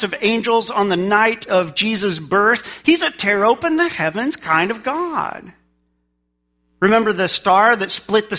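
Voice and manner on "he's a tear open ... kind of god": raised, energetic preaching refrain; fervent proclamation. Real, not acted. Preacher celebrating the God who comes down, fervent. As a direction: proclaim it with rising fervor. Excited refrain, later repeated softly.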